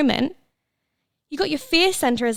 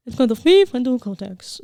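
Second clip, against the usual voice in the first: laughing stumble. Real, not acted. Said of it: "I just can't fucking speak".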